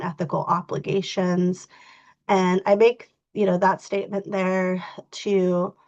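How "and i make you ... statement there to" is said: talking with a stuffy nose; blocked nose, slightly congested. Real, not acted. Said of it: "Sorry, guys, I'm a little stuffy".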